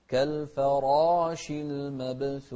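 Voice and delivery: المبثوث with a bouncing ba; echoing ba. Shown as a demonstration. Teacher shows the bouncing ba in المبثوث. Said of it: "والباء من أحرف قطب جد".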